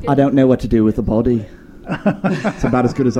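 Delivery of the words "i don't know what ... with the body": put-on Liverpool accent. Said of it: "I had to do Loot".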